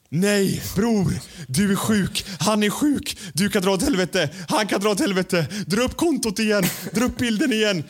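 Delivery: high, loud, outraged yelling at his cohost; mock furious rant. Imitating Arman furious over deleted post.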